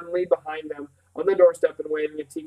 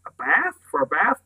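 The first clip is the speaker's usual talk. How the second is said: amazed. A narrator's reading. Boy reacting to great-uncle's bathing plan, amazed. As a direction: question it with a steep upward swoop. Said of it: "voice rose in amazement".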